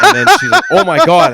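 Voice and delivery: high, loud laughing retelling; laughing hard. Real, not acted. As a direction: laugh through the words. Retelling embarrassed director, laughing.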